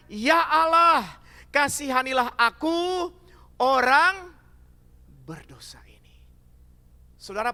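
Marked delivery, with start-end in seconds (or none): 0.1-6.2 slow, louder plea fading to a whisper; pleading prayer. Acted. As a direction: beg God for mercy. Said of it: "memukul diri dan berkata". (pemungut cukai memohon dengan lirih)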